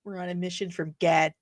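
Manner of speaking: put-on low Midwestern accent, hard vowel on Gad. Streamer quoting a film line, low Midwestern accent. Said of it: "the Midwestern accent thrown in kinda hard".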